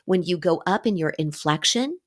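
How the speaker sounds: "inflection" rising like a question; upspeak. Shown as a demonstration. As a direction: go up at the end on INFLECTION. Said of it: "sounding like you're asking a question".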